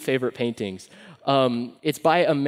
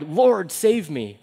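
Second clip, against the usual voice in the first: drowning cry; 3 semitones higher, 3 dB louder, much slower than usual. Retold or imitated. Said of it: "with lungs full of water, he cried".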